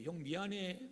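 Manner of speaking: soft, heartfelt sorry; sincere apology. Acted. Younger brother truly asking older brother's forgiveness, soft sincere apology. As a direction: apologize softly and mean it. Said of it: "이게 진짜 용서라는 거예요".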